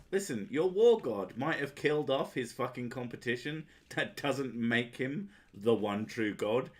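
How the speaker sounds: mildly heated, emphatic telling-off; hammed-up indignant comeback, slowing for emphasis; indignant retort. Acted retort to believers.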